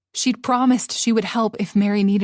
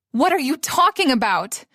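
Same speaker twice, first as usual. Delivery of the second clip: countering; 5 semitones higher than usual. Acted. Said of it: "she countered".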